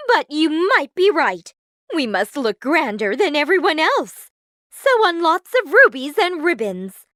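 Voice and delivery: loud, high vain voice; bossy stepsister. A narrator's reading. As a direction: give orders with self-important relish. Stepsister demands finery.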